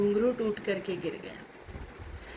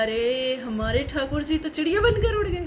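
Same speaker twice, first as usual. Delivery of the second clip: acting out astonishment, higher at the end; astonished realization; 5 semitones higher, 4 dB louder than usual. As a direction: voice the saint's startled discovery, pitch climbing. Saint discovers deity flew away. (चकित होने का अभिनय, ऊँचे स्वर में)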